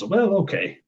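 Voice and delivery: high, sing-song faked reluctance; imitating the shrink finally accepting the money; mock reluctant okay. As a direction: give in with a high fake sigh.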